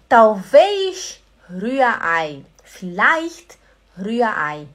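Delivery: slow, drawn-out undecided reply; hesitant answer. Retold or imitated. Bruna, unsure, drawling her choice of egg. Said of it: "Ela falou assim".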